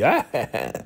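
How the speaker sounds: brief high imitated cackle, not full-on; mock cackle. Recapping Molly losing it, a quick mock cackle. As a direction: toss off a quick cackle to show her laugh. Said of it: "like, cackling".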